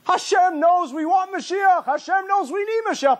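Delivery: high, slow, impassioned plea; pleading with the congregation, rising in fervour; fervent preaching. Real, not acted. Rabbi urging his listeners, impassioned and high.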